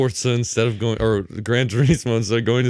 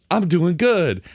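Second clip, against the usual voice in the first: higher, mock-excited declaration; mock triumph; 6 semitones higher, 3 dB louder, slower than usual. Host mocking the racer's instant comeback, mock triumph. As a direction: pipe up in sudden mock triumph. Voices suddenly winning racer, contrast.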